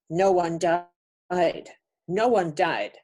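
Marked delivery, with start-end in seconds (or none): 0.1-1.7 very slow, weighty voice for a spoken message; slow solemn message. Retold or imitated. Retelling the message she heard in her dream, slow and grave. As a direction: give each word weight, slowly. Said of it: "I was told".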